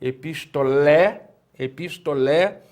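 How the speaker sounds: Epistolé slow, weight on lé; epistolé with tonic syllable lé; stress on final syllable. Shown as a demonstration. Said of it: "que é a sílaba tônica".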